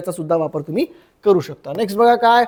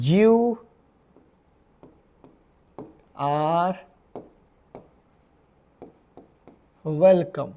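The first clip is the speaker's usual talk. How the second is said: slow, spaced word by word; teacher pacing it out for students, word by word; 4 semitones lower, 5 dB quieter, much slower than usual. Shown as a demonstration. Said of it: "मग कसं म्हणणार?".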